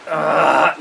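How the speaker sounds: imitated frustrated groan; exasperated groan. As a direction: groan at a missed hint. Teacher exasperated at another missed hint.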